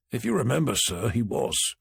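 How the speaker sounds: Tanner coolly pointing out "he was"; dry retort. Acted.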